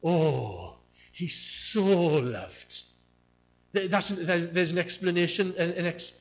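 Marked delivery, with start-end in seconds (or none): 0.0-2.8 "he so loved" very slow, "so" stretched; slow, heartfelt "so loved"; tender "so". Shown as a demonstration. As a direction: savour "so" like a sigh of love. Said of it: "The one is".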